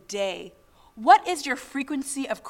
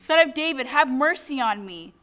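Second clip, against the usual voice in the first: brief raised retold cry. Blind man crying out over those rebuking him, retold. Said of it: "he starts crying out".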